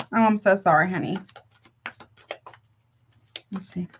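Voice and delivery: ordinary talk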